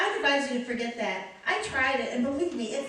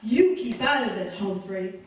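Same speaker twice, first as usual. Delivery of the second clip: Lauren Bacall; 4 semitones lower than usual. Acted. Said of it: "now she wants to be Lauren Bacall".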